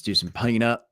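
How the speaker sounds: light Southern twang; weird Southern voice. Pretend. Streamer kicking off Peanut talk in a light Southern voice. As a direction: lightly put on a Southern accent. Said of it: "that weird Southern voice about Peanut".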